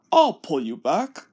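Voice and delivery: forgiving Gordon. Acted. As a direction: let him off gently. Gordon offers help.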